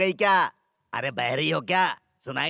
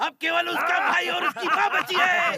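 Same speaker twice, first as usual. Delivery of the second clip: shouted high news report; excited high shout; calling out. Acted. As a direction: yell the news across the room. Henchman runs in with news.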